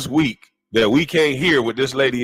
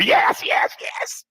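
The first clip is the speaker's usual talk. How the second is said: squeaky mimicked yeses, fading out; mock eager interrupting; much slower than usual. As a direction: parody a fawning co-host cutting in.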